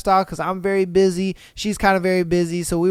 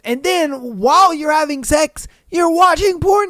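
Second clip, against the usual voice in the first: high, rising, louder disbelief; incredulous; 8 semitones higher, 4 dB louder than usual. Real, not acted. Host reacting to a confession, incredulous. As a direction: push it up high into an astonished question.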